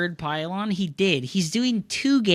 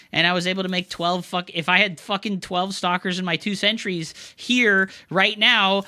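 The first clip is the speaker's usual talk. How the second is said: usual speaking voice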